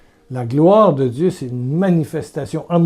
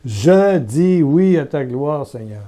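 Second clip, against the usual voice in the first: slow, steady prayer phrase; slow repeated prayer; slower than usual. Shown as a demonstration. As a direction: say it slowly to be echoed. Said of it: "Répète".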